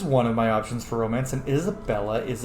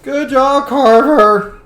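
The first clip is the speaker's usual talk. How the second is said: high, loud praise; cheering shout; 12 semitones higher, 10 dB louder, much slower than usual. Real, not acted. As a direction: call out praise to your teammate. Cheering brother on after fight.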